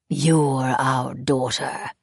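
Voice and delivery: very slow, strange otherworldly voice; eerie fairy voice. Acted. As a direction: lay claim to her slowly. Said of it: "one of the gray-faced monsters said".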